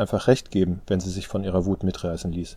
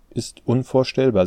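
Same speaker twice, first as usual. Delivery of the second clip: ordinary delivery, nothing marked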